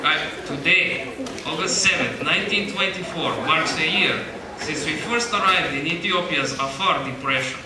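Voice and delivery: put-on light amateur Russian accent. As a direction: read it in a mild Russian accent. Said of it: "I'll be reading this whole thing in a Russian accent".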